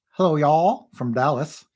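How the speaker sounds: a playful Texan "Hello, y'all" drawn out; Texan accent greeting from Dallas. Retold or imitated. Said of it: "I guess I d-, just made him have that accent".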